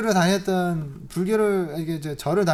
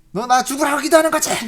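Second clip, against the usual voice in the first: loud, higher mock scolding; mock scolding mother-in-law; 7 semitones higher, 9 dB louder than usual. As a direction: snap at her like a sour mother-in-law. Mother-in-law accusing her. (며느리를 꾸짖는 시어머니 흉내, 크고 높게)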